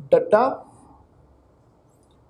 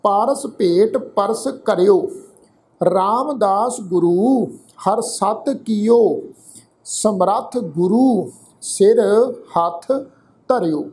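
slow, measured Gurbani reading; drawn-out words with pauses between phrases; scripture recitation; slower than usual. Shown as a demonstration. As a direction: recite the verse slowly, phrase by phrase. Recites scripture verse for a lesson.

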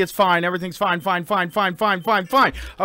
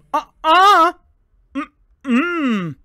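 mock denial voice; 3 semitones higher, 5 dB louder, much slower than usual. Denying the noise in a put-on voice.

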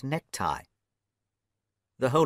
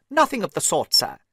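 higher and louder, indignant yelp; mild screamed outburst; 6 semitones higher, 4 dB louder than usual. A narrator's reading. Little old man refusing to pay, mild scream. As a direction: snap it out in a lightly voiced fury. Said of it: "screamed the little man".

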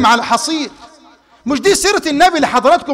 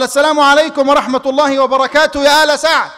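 louder greeting; 3 semitones higher, 3 dB louder than usual. Retold or imitated. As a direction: call the greeting a bit louder. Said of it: "قال".

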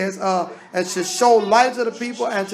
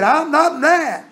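calm denial; 6 semitones higher, 5 dB louder, slower than usual. Retold or imitated. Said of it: "But he said".

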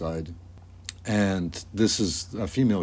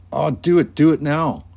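put-on high, loud kids egging a friend on; urging on; 8 semitones higher, 8 dB louder than usual. Everybody eggs the boy on by the puddle, urging.

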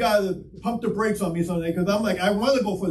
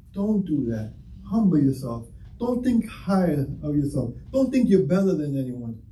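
lower, restrained voice of admonition; Holy Spirit; 5 semitones lower than usual. Retold or imitated. Preacher voices the Spirit telling him to stay humble, low admonition. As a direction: drop the pitch and admonish evenly. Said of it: "And he tells me".

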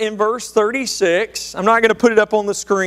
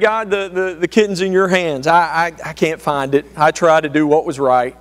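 lower, hushed pleading to God; humble prayer; 6 semitones lower than usual. Retold or imitated. Preacher praying for the lost kitten, lower and hushed. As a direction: pray it out, stammering and sincere. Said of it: "finally he just prayed".

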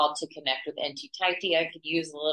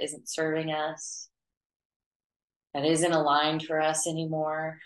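even, unhurried meditation voice with long pauses; guided meditation. Acted. Teacher leading students to clear their auras, guided meditation. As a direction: guide them gently through it, pitch held level.

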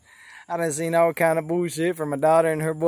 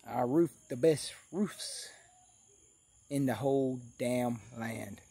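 put-on drunken mumble; 4 semitones lower, 9 dB quieter, slower than usual. Drunk boast trailing off.

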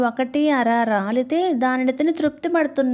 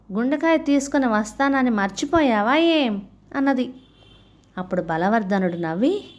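animated, lilting storytelling voice; story narration. A narrator's reading. Narrator telling a Panchatantra fable of monkey and crocodile, expressive storytelling. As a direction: read the fable with rising and falling phrases.

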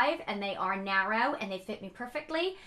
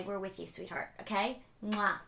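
tender; 3 semitones lower, 4 dB quieter than usual. Real, not acted. Sending love to a struggling viewer.

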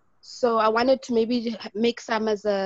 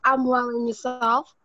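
raised voice, clearly audible; a little louder; 4 dB louder than usual. Real, not acted. Participant repeating her reply for the host, speaking up. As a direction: speak up so they hear you. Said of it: "Can you talk a little louder?".

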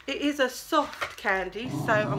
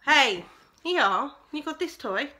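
talking to a dog; 3 semitones higher than usual. Real, not acted. Talks to her dog.

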